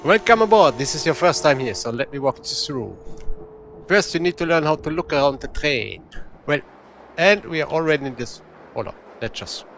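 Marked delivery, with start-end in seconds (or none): 0.0-8.4 attempted Russian accent. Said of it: "So I'm trying to mimic the accent".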